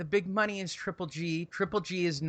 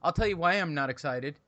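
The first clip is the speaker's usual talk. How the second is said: ordinary delivery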